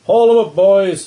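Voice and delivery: loud barked order; shouted order. A narrator's reading. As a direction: call it out loud to the dock hands. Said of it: "Starkweather orders".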